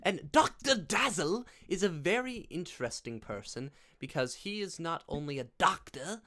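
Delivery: high, loud, silly put-on voice; hammed-up character voice with punched name; Doctor Dazzle voice. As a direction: play a flamboyant doctor, swooping high. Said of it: "I don't know why I'm doing that voice".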